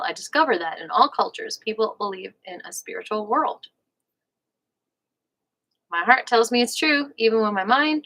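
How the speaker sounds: measured audiobook-style reading; book read-aloud. Real, not acted. Host reads a relationship book to listeners, measured read-aloud. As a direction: read it out in careful, separate phrases. Goes back and re-reads the passage.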